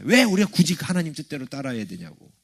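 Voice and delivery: mild mock protest; lightly acted complaint; imitated resistance. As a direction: voice a reluctant objector, hitting the opening "why". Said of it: "거부감들이 많아요".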